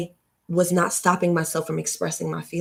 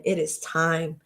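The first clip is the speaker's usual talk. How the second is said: softer, hushed it is time; hushed repeat; 6 dB quieter, slower than usual. Real, not acted. To the audience, repeating the call in a hush. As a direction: let it drop to a hush.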